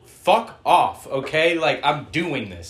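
loud, put-upon actor refusing; defiant acting. Film fan voicing the actor's character, defiant. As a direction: push back hard, loud on the first words. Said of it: "his character just being like".

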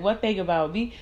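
mimicking her friend. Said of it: "she's like".

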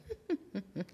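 short, soft monster chuckle; a quiet amused chuckle from the gruffalo; gruffalo laugh. Acted. Gruffalo laughing at the mouse's boast, soft chuckle. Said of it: "disse o grúfalo rindo".

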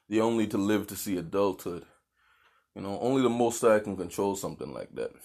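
talking between sips of coffee; a sip of coffee mid-sentence; while sipping a drink. Real, not acted. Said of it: "I'm drinking my coffee here".

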